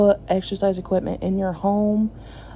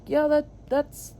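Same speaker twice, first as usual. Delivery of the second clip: higher, mock-agreeable sarcasm; sarcastic retort; 5 semitones higher than usual. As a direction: fake agreement before the jab. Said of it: "I'm like".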